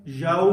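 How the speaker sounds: یاؤ with open ya gliding into w, like "yao"; correct pronunciation of yawm. Shown as a demonstration. Teacher modelling یاؤ for students, careful diphthong. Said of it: "اس کو پڑھتے ہیں".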